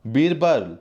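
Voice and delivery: loud, high call across the fort. Acted. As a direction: shout the name to summon him. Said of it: "जोर से पुकार कर कहता है". (सिपाही को बुलाने के लिए ऊँची, ज़ोरदार पुकार)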